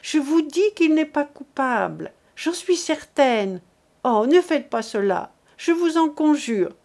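a lightly voiced desperate mother; begging mother. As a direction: implore them to spare him. Mother begs officers.

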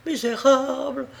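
indignant outcry. A narrator's reading. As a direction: fling the insult while struggling. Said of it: "s'écria-t-elle en se débattant".

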